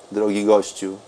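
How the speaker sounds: ordinary talk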